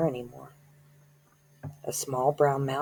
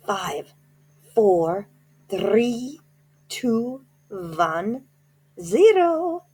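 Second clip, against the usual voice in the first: countdown rising to a high loud zero; building countdown; 4 semitones higher, 3 dB louder, much slower than usual. Acted. Grand High Witch counting down to Bruno's transformation, building to a shriek.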